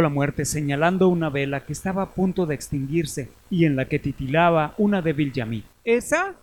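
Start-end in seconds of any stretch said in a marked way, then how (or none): 5.8-6.3 very high, shocked cry; terrified exclamation. Acted. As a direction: gasp it out in terror. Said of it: "exclamó el joven temblando".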